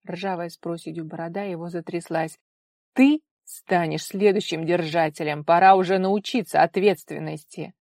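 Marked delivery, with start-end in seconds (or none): 2.9-7.8 loud, firm commanding tone; stern lecture. A narrator's reading. Father lecturing his heir, stern and loud. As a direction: lay down the law.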